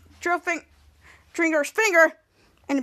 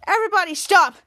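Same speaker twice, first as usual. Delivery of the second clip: raised, louder call to stop; exasperated plea; 3 semitones higher, 4 dB louder than usual. Retold or imitated. Hero who can't take it anymore, exasperated. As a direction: act out fed-up protest.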